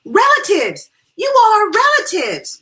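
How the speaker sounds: loud, high-pitched excited cry; delighted squeal. A narrator's reading. Friend learning they are kin, thrilled squeal. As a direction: squeal it out at the discovery. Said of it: "gave a little squeal".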